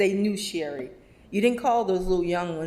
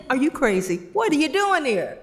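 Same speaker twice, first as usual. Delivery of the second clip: higher, louder disbelief; surprised teasing; 8 semitones higher, 5 dB louder than usual. Retold or imitated. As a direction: tease her for coming back. Greeting Sherry who came back.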